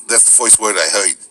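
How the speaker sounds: New Orleans Yat with Brooklyn vowels; Yat dialect. Shown as a demonstration. Demonstrating the height voice of New Orleans, Yat accent. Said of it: "it has this kind of height voice".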